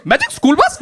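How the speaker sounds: put-on puzzled kid with an Indian accent; put-on Indian accent, questioning rise. Comic plays the one odd cartoon kid, questioning Indian accent. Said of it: "he has an Indian accent".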